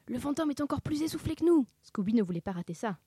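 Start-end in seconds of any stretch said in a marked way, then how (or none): 0.1-1.7 high, gleeful remark; excited aside. A narrator's reading. Sammy points out the breathless ghost, excitedly. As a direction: share it eagerly with your accomplice. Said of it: "chuchota Sammy".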